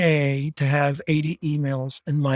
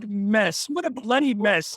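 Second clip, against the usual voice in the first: mock British accent; 5 semitones higher than usual. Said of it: "how bad his accent is".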